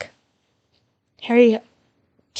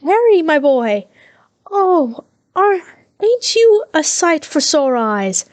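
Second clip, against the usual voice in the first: a delighted Cockney crook greeting Harry; East End accent; 5 semitones higher than usual. A narrator's reading. Old Cockney rogue glad to see Harry, East End accent. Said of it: "he croaked in a distinctly East End accent".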